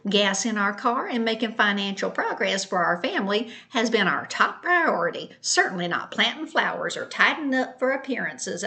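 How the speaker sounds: lightly voiced snippy sister-in-law, indignant; Christina's voice. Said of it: "I'm gonna read it in Christina's voice".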